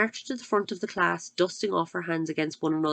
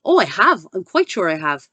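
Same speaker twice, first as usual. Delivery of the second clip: grinning; 8 dB louder than usual. Acted.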